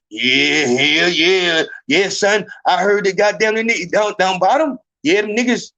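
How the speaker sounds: hammed-up New York agreement; New York accent. New Yorker vouching for an Alabama newcomer, in a mock New York accent. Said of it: "Is that the New York accent?".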